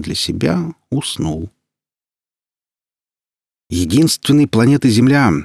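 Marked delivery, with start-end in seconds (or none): 3.7-5.3 reverent. Acted. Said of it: "послышалось почти благоговение".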